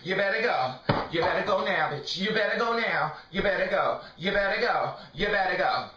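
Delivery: loud, forceful repeated warning; mad. Real, not acted. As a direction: drive the partner out with each repeat. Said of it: "I'm so goddamn mad".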